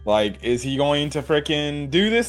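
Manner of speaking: high, anxious mock-girlish fretting; paranoid fretting. Girl panicking over her crush, high mock fretting. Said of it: "being all freaking paranoid about this".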